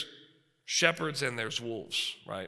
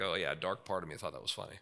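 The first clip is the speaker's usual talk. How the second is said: sheepish confession; 8 semitones lower, 7 dB quieter than usual. Retold or imitated. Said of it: "You're like".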